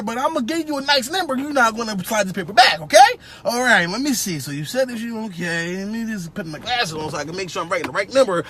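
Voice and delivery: a hint of a chatty hiring manager laying out the rules; lightly voiced interviewer. Interviewer briefing a new technician, lightly voiced and chatty. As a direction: play the boss rambling through the shift times.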